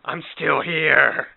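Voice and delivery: slow, drawn-out call from within; lightly acted trapped voice calling; voiced inner hater. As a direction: stretch it out like something knocking to get out. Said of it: "It's like knocking on that barrier".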